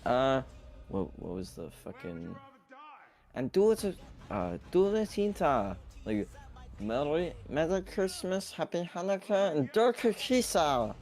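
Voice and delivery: squeaky high cheery greeting; high put-on holiday voice. Wishing the chat happy holidays in a high cartoonish squeak. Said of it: "I can also try to do a st".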